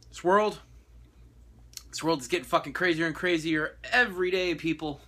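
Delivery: heated rant. Real, not acted. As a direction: vent at the world. Opening rant.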